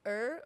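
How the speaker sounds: "er" with the R pulled out; drawn-out R. Shown as a demonstration. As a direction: lean on the R in "er". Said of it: "puxar mais o R".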